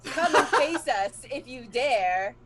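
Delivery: booming orator's proclamation; roman orator. Acted. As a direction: declaim it across the land. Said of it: "with an orator's voice that carries across the land".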